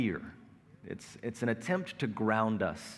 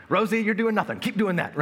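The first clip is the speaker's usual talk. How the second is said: much higher, louder mock praise; sarcastic high yell; 9 semitones higher, 4 dB louder than usual. Frazzled dad sarcastically praising the one idle kid, loud and high. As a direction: throw it at her with loud sarcasm.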